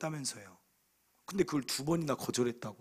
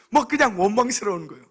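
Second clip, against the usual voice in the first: louder, higher, laughing as you speak; laughing through words; 6 semitones higher, 8 dB louder than usual. Real, not acted. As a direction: confess it while still laughing. Laughing while confessing. (웃으면서 말하는)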